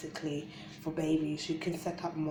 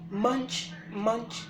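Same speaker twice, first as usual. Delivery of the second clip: munching sound; 7 semitones higher, 4 dB louder than usual. Shown as a demonstration. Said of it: "that's a panda eating".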